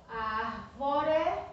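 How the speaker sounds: "árvore" drawn out slowly for the pupils; syllable by syllable. Shown as a demonstration. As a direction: stretch out "árvore", ár-vo-re. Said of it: "eu separo assim".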